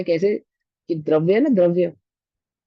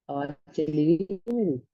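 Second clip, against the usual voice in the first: cutting-out voice on a bad call line; choppy breaking-up phone audio; glitchy robotic call; 6 dB quieter than usual. Real, not acted. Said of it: "आपकी आवाज ना cut cut के आ रही है आज।". (कटती-टूटती call की आवाज़)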